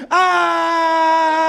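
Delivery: high loud cry of pure joy; joyful dog yelp. Retold or imitated. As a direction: let out an ecstatic yelp. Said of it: "He's like".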